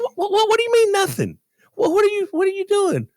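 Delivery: high, sputtering "what, what, what"; too stunned to get the words out; mock outraged disbelief; stammering disbelief.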